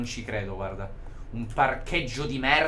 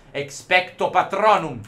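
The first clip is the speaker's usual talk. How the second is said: slow, solemn incantation; playful wizard casting a spell; mock spell; 4 semitones higher, 5 dB louder, slower than usual. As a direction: intone "Expecto patronum" like a wizard.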